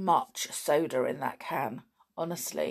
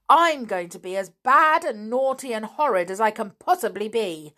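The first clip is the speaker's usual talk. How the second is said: put-on louder, stubborn child's tantrum; girl defying her two mistresses; defiant outburst; 4 semitones higher, 6 dB louder than usual. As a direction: hurl it at them, daring them to get cross. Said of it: "The little girl glared".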